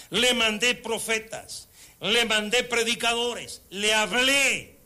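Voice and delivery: slow, weighty divine voice, each le hit; heavy slow sorrowful repetition; slow emphatic lament. Acted. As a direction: lay out each sending slowly.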